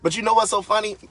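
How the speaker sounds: high, loud, excited burst; yelling. Real, not acted. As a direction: pitch it up and call it out. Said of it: "I'm yelling".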